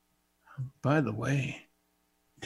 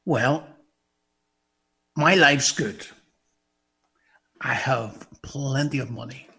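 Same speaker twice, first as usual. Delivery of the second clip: smug sinner; 3 semitones lower than usual. Pretend. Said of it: "you say".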